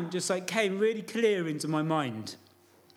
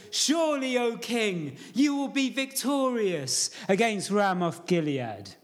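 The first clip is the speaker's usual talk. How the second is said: sarcastic. Retold or imitated. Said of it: "being mega sarcastic".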